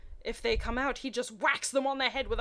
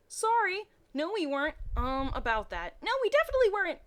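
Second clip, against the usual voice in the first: put-on guilty kids' denial; 9 semitones higher, 5 dB louder than usual. A narrator's reading. The twins deny it together.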